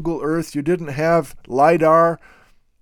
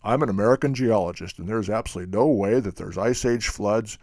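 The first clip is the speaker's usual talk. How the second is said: mock American geologist; 4 semitones lower than usual. Mocking the American geologist who denies the floods, lightly lower and quicker. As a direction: rattle it off low and dismissive, like a know-it-all.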